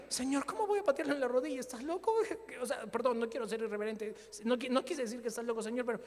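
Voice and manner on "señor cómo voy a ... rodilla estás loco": fast, higher, louder disbelief; half-comic shocked objection to God; incredulous protest. Retold or imitated. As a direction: blurt it out as if God must be joking.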